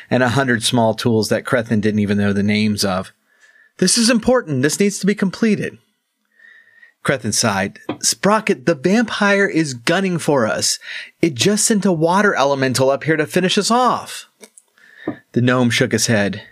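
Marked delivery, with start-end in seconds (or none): 3.8-5.8 high, quick tinkerer gnome; a chirpy little gnome realizing his mistake; excited gnome voice. Acted. Gnome Sprocket's voice. 8.0-14.3 raised, pressing the point; an impatient swordsman pushing back; urgent warrior voice. Acted. Crethin urging the gnome.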